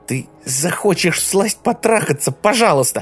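woman screaming at the man leaving her; shouting. A narrator's reading. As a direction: scream the insults at him. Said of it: "Теперь она кричала".

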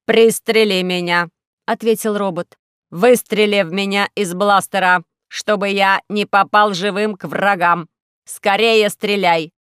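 loud, slow pleading robot voice; a robot urgently begging to be shot; slow, loud desperate robot. Acted.

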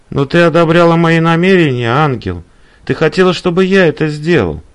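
mildly heated plea; protesting. Acted. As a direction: insist she shares the blame. Man protests in quarrel.

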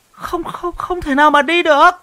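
put-on high, insistent old villager voice; old man's denial. Old Sáu rejects the young man's guess, high and insistent. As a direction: shake it off like a stubborn old elder.

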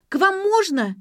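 high squeaky plea. A narrator's reading. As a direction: squeak it out like a girl. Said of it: "запищала она".

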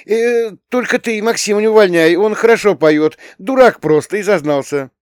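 put-on high, loud indignant girl; teen girl Tanya. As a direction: voice an upset young girl complaining. Tanya's voice held. (высокий громкий голос возмущённой девочки-подростка)

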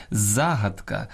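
загадка stressed on ЗА; stress on first syllable. Shown as a demonstration. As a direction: say ЗА-гад-ка. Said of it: "Правильно казати".

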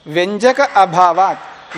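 व्यंजक stressed and drawn out slowly; emphatic slow reading. Shown as a demonstration. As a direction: isolate व्यंजक अभावात् slowly for the class. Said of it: "teacher isolating sutra words".

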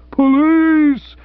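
hammed-up bass roar. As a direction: roar it like a big man. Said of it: "roared the dictator, taking the bass".

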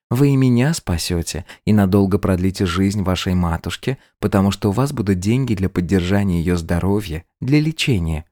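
hugging the maid to win her over; gently manipulative schemer; coaxing bride. Acted. Antonina changes tactics, coaxing.

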